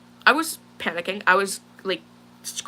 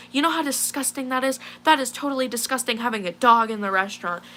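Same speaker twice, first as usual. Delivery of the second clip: high-pitched mock scolding at normal volume; imitated angry screaming; 4 semitones higher than usual. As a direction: imitate someone indignantly telling you off. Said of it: "screaming in my face".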